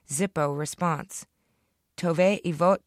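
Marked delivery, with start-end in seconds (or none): 2.0-2.8 loud announced name; announcer voice. A narrator's reading. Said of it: "the host announced".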